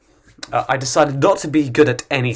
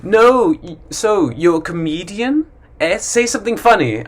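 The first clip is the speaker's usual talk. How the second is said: mock teasing, pitched up; pushy stranger; 5 semitones higher than usual. Stranger pestering a comedian, mild mocking tone. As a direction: needle the comedian. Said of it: "there's always someone that says".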